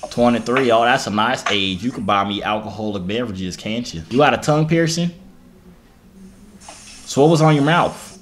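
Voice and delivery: a light put-on country accent while flirting. Flirting with a stranger on video chat, in a country accent. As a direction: lay on a lazy Southern country accent, smooth talker. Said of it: "country accent sucks".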